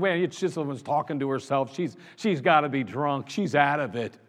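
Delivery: lightly acted priest judging someone; dismissive aside. Priest watching a woman he thinks is drunk, dismissive. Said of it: "And he's like".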